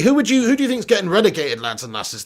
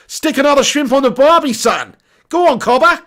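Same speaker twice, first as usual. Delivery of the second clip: higher-pitched, louder hammed-up Australian accent; mock Australian accent; 5 semitones higher, 4 dB louder than usual. Streamer joking with an Australian viewer, mock Australian accent. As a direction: put on a jokey Aussie voice.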